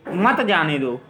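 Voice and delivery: मत जाने दो as its own phrase, stressed मत, dropping low; separate phrase after comma. Shown as a demonstration. Teacher finishing the comma example, मत grouped with जाने दो. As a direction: keep मत with जाने दो, falling to the end. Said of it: "वो अल्पविराम लगा देंगे".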